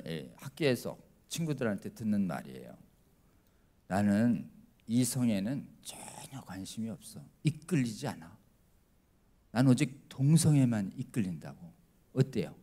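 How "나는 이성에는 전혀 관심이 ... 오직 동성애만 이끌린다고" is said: put-on confiding teen. Teen's words quoted at school.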